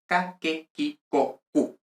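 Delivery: C always as hard k: "K, K, K, K, Q" as ka, ka, ke, ki, ko, ku; "K, K, K, K, Q" sounded with a hard k before every vowel. Shown as a demonstration. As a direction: recite "K, K, K, K, Q" as separate k-plus-vowel syllables. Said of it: "La letra C siempre suena como K".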